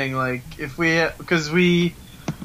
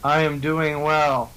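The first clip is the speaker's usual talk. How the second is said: slow, flat machine-like delivery; robotic voice; slower than usual. Real, not acted. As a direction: speak like a robot, measured and slow. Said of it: "You sound so robotic today".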